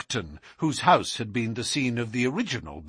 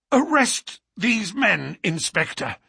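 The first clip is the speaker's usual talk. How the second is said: gasped; 7 semitones higher than usual. Acted. Exhausted Holmes orders the inspector, gasping for breath. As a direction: push it out between gasps. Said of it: "he gasped".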